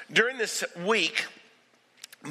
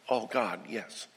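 longing yes; 7 semitones lower, 6 dB quieter than usual. Acted. Crowd answers Jesus, longing.

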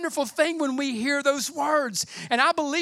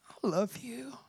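breathy whisper, much softer; tender whisper; 10 dB quieter than usual. Retold or imitated. Grandfather on the steps whispering to his granddaughter. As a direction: whisper it close to her ear.

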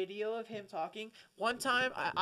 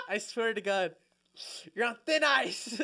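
ordinary talk, nothing marked

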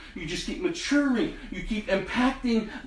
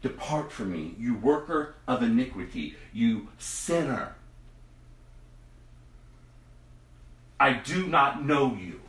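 stern judgement; 8 semitones lower, 4 dB quieter than usual. Acted. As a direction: drag out each word of doom. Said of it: "And he says".

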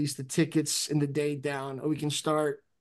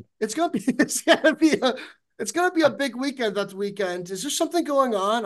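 high-pitched mock-British voice; hammed-up British accent; terrible British accent; 7 semitones higher than usual. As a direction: badly imitate a British landlord, pitched up. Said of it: "That's a terrible accent".

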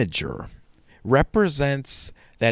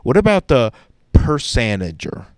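laughing at own joke; 8 dB louder than usual. Real, not acted. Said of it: "I'm sorry, that was a stupid joke".

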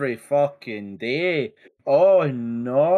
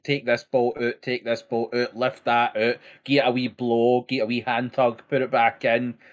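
breezy mock instructions; 5 semitones lower than usual. Mock instructions, how easy it seems.

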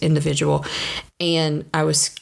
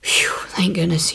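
relieved whisper. Acted. Relief after the inner dialogue.

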